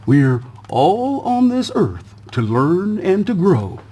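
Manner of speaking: slow, lightly voiced old tortoise; slow sage tortoise voice; wise old tortoise. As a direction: speak slowly like an ancient tortoise. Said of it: "a wise old tortoise chimed in".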